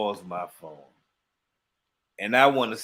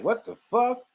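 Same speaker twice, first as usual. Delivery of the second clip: stunned inner outburst; 10 semitones higher than usual. Retold or imitated. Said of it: "in my head, I'm like".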